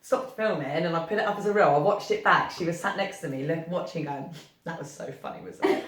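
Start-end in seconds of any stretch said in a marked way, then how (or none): 4.6-5.8 airy laughing quote of a daughter, much softer; retold child laughing, unvoiced. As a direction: imitate the kid giggling through it.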